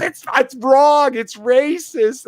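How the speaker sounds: a prim scolding lady voice; imitating offended woman. Host mimicking the viral clip woman, a high scolding voice. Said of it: "And she goes".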